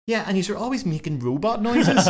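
high mock boy's complaint; little boy piping up. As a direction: pipe up like an indignant kid. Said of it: "the little boy piped up".

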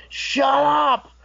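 high-pitched angry cry, drawn out; mock yell. Wrestler silencing the DJ in the corner, mock yell. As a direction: act out cutting her off. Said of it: "getting louder and louder and louder".

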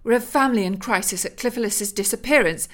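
outraged mother defending her bikini; indignant protest. Acted. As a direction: scold them as the wronged lady. Elizabeth confronts the intruders.

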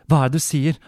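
a startled mother demanding to know; upset mother calling out. Acted. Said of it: "hun ropte forstyrret". (forstyrret rop fra moren)

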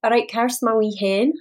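retry of the Scottish pet name, toned down. Pretend. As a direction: try the Scottish line again, gentler. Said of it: "English person trying to do a Scottish accent".

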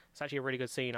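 understated, sarcastic-sounding praise; sincere words that come out sounding sarcastic; unintentionally sarcastic. Real, not acted. Host praising a flashback scene, sounding sarcastic. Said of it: "the tone makes it sound like I'm being sarcastic".

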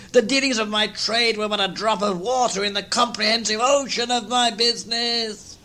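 high, ringing ghostly outcry; anguished ghost. Acted. Ghost rebukes Scrooge about business, high anguished cry. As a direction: hurl the word Business.

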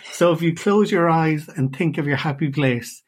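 real amusement left in the voice; holding back laughter. Real, not acted. Host retrying the happy place question, suppressing laughter. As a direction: restart while getting over a laugh. Restarting question after giggling fit.

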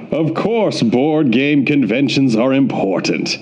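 measured impression, drawn out mid-sentence; lightly put-on voice of a colleague; Eric Summer. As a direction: imitate him with a deliberate delivery. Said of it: "this is my Eric Summer".

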